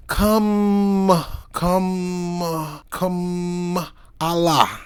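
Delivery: mock syllable-by-syllable chant; mock "Kamala" as "Come ... Allah". Shown as a demonstration. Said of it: "this is how they sound".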